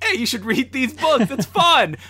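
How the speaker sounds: put-on high, bright kids' show pitch; cheesy kids' show voice. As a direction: sell reading like a kids' show.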